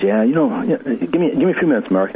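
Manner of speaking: a breezy, high take on his wife brushing him off; imitating his wife. Wife answers while out shopping.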